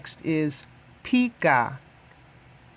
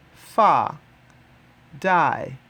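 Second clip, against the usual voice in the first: ordinary talk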